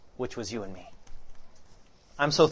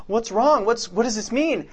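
alarmed, asking the nurse what's wrong; panicked; 6 semitones higher than usual. Retold or imitated. Panicked mother seeing blood.

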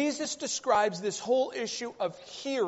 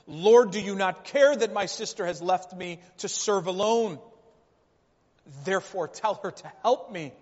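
louder, mildly exasperated complaint; a touch of frustrated pleading, voice raised; 5 dB louder than usual. Retold or imitated. Martha complains to Jesus about serving alone, mildly frustrated. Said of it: "out of her frustration".

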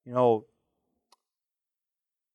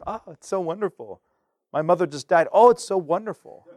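gushing mock cheer; over-the-top chipper; overly zealous; 4 semitones higher than usual. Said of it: "Don't be annoyingly zealous".

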